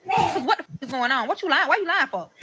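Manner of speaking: high-pitched retold accusation; accusing outrage. Woman catching her partner in a lie, accusing. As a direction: demand answers, voice jumping up in disbelief.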